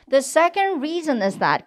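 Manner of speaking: very slow with adjectives and nouns stressed; stretched-out phrase. Shown as a demonstration. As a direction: drag out second and reason. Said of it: "두 번째 이유는 하면서 끌어보겠습니다".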